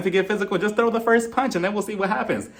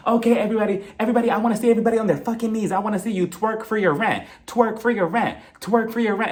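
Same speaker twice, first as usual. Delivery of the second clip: higher-pitched imitation of rallying a crowd; mock megaphone announcement; 4 semitones higher than usual. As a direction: hype up the room like a mock announcer. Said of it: "she grabs that big-ass megaphone".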